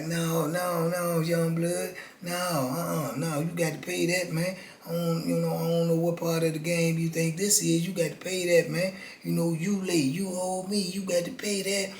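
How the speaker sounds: lightly voiced menacing old con; low raspy voice. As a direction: Teaspoon quietly insisting on payment, soft raspy threat. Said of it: "he talk low with a little raspy voice".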